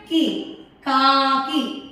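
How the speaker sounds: slow, light short కి then కాకి. Shown as a demonstration. Teacher showing the short i in కాకి. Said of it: "కి తేలికగా పలికాను".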